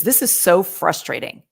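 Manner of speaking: the annoyed version of the line; frustrated tone. Shown as a demonstration. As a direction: sound like you're frustrated at them. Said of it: "Now I sound like I'm frustrated".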